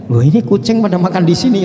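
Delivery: lightly voiced surprised onlooker; mock passerby.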